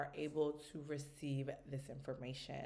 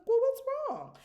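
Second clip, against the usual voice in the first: much higher and louder; high eager question; 10 dB louder, slower than usual. Retold or imitated. Mom asking her daughter what's wrong, high and eager. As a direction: ask brightly, eager to help. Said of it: "And I'm like".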